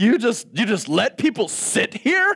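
acted, swooping, drawn-out scolding yell. Acting out scolding themself while cleaning, imitating yelling at oneself. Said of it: "I'm like yelling at myself".

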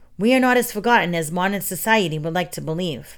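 ordinary delivery, nothing marked

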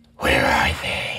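speech with the tongue pushed forward. Showing how the actor shapes his mouth: Christian Bale's Batman voice. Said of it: "He pushes his tongue out and actually goes more like this".

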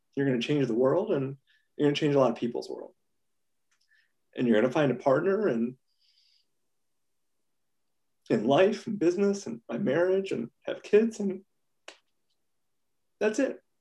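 moved, emotional. Answering what to tell younger self, getting emotional. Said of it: "I did not think I was gonna get emotional".

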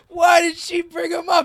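high, loud, outraged, disbelieving shout.

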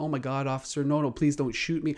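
play-acted childlike begging, pleading over and over. Retelling how Floyd begged an officer not to shoot: imitating Floyd pleading. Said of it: "he kept pleading to".

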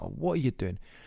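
mock irate, angry, exasperated tone. Retelling finding a girl at the gate: retelling own angry words. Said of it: "I was really angry".

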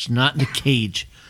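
talking through clenched teeth. Retelling telling someone the hamster is missing from its cage, talking through clenched teeth. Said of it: "I'm talking through my teeth".

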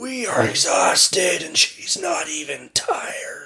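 winded, breathless, gasping, out-of-breath whisper. Reading a story, the whirlwinds speak after falling to the ground: gasping whirlwind voice. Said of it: "the whirlwinds woke up from their sleep and, noticing the little figure in the snow, became furious".

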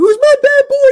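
very high, loud, super playful and fun. Demonstrating the tone of voice to use: super playful and fun. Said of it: "The tone of voice is super playful and fun".

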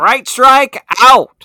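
mic-blasting yell, very high, shrill and loud. Signing off the episode with a catchphrase: yelling into the microphone. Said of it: "Stop yelling in your microphone".

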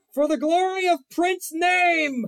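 very high-pitched, loud villain war cry. Voicing an antagonist attacking the army from his bathtub: villain yelling a battle cry. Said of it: "leans up in his bathtub and yells".

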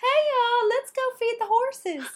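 sugary, very high, sweet Southern twang mom voice. Describing a co-host's mom to the co-host, imitating a mom, higher, sweeter. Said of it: "much higher and sweeter voice".

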